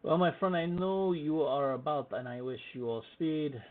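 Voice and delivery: loud, high character voice; hearty shopkeeper farewell. Acted. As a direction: send the soldiers off loudly, as the merchant. Shopkeeper bids the soldiers good speed.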